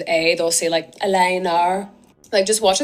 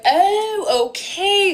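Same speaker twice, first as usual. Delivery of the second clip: sudden realization; 13 semitones higher, much slower than usual. Retold or imitated. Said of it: "And I was like".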